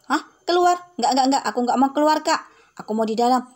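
put-on a young kid whining she won't go out; little girl Mio.

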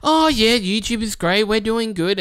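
high, loud, chirpy dodge; hammed-up high voice of a rep avoiding a question; mocking YouTube rep. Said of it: "one guy would be like".

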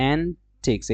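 "antiques" said as an-TEEKS; antiques pronunciation demo. Shown as a demonstration. Teacher showing students the word antiques, careful pronunciation. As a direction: lean on the long "teeks" in "antiques". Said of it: "ডটা কিন্তু উচ্চারণ হয় না".

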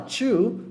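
"two" with CH, "chu"; two dito como chew. Shown as a demonstration. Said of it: "A palavra chew". ("two" soando "tchu")

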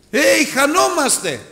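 high, drawn-out cry of alarm; mock the people crying out in panic; stretched, high-pitched retold wail; imitated crowd cry. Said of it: "Ο λαός άρχισε να φωνάζει".

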